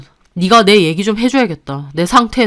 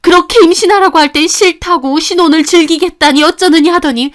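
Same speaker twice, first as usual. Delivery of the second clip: mother-in-law shouting accusations of cheating; angry accusing; 5 semitones higher than usual. Acted. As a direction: berate her without letting up.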